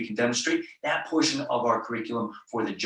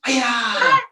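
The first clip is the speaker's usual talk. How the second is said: loud, high martial arts kiai; sharp karate-class battle cry; loud yell; 12 semitones higher, 9 dB louder than usual. Shown as a demonstration. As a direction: yell it out high, falling away at the end. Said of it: "loud yell".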